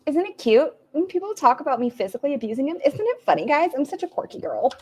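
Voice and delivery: high-pitched sarcastic girly impression; mock cutesy. Reactor parodying Amber laughing off abuse claims, mock cutesy. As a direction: put on a high, sweetly clueless voice.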